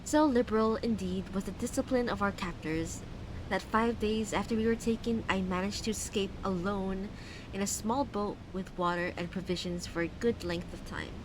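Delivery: lightly put-on Valley Girl accent reading. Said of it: "start reading Dagon with a Valley Girl accent".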